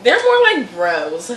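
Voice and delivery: teasing, stretched-out copy of mom; mimicking mom. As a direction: mimic your mom with drawn-out emphasis. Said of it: "No, she's like".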